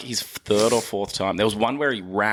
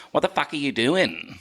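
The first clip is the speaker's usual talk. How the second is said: deeper Australian accent; 5 semitones higher than usual. Shown as a demonstration. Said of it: "in my deeper Australian".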